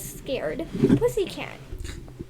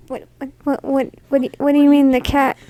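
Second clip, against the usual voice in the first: mock disbelief; 8 dB louder than usual. Family reacts in retold will scene.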